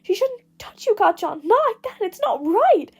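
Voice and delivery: lightly voiced Deku. Deku voiced, pleading and higher.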